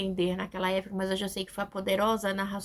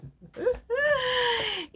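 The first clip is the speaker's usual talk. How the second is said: high pained laugh; 13 semitones higher than usual. Real, not acted. Recalling near-drowning trauma.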